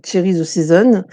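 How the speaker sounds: English product name in a heavy French accent; French-accented English, self-mocking; jokey English accent. Shown as a demonstration. Crafter tells viewers the stamp set name, in French-accented English. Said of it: "avec mon accent anglais de balle".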